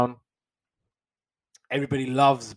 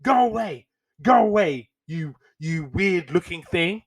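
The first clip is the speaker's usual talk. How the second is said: mock disgusted crowd; 5 semitones higher than usual. Crowd shooing off the elephant.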